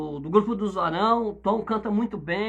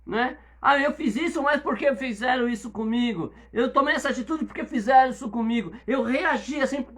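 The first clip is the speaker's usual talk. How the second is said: mock blame-shifting; 4 semitones higher than usual.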